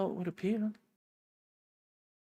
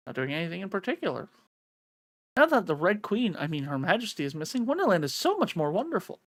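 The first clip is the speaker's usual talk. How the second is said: chirpy little bird; 4 semitones higher, 4 dB louder than usual. Acted. Voices the little bird character.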